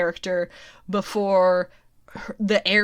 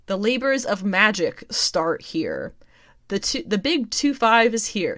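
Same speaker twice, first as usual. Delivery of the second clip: promo copy read. Acted. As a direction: read it out like a big announcement. Reads solicitation aloud.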